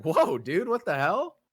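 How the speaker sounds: high, loud stunned exclamation; shocked. Retold or imitated. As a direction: gasp it out in disbelief. Shock at renovated shop.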